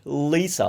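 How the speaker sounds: "Lisa" with a throaty North American L; low dark L. Shown as a demonstration. Teacher contrasting English with Italian, dark L in "Lisa". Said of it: "often comes from much lower".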